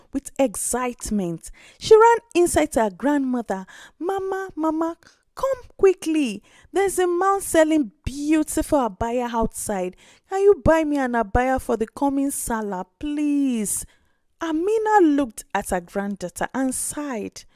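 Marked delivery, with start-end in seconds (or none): 4.0-13.8 put-on higher, eager child's voice; a small girl rushing in with big news; excited little girl. Orphan girl begs her grandmother for an abaya, excited child voice.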